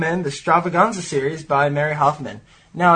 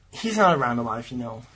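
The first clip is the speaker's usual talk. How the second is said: low, quiet put-on character voice; lowered, mumbled boyish voice; 4 semitones lower, 6 dB quieter than usual. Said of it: "Are you putting on a voice?".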